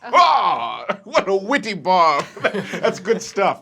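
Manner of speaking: high, laughing sarcastic praise; a smug noble kid's amused scoff; mocking laugh. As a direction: laugh it off with mock admiration. Fabian mocks Rog's insult.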